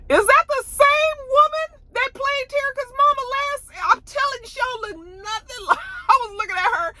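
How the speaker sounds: high, laughing in disbelief; cracking up mid-sentence; squealing with laughter. Real, not acted. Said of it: "laughing disbelief".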